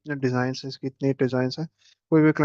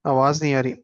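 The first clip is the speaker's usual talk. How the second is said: louder to be heard; 6 dB louder than usual. Real, not acted. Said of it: "इतना चिल्ला तो रहा हूँ मैं".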